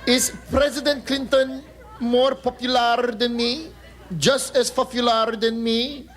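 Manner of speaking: put-on Filipino accent, emotional and gushing; lightly voiced Filipina first lady pining for shoes; Imelda Marcos. Manila reporter longing for Hawaii shopping, gushing in a Filipino accent. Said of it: "My name is Imelda Marcos".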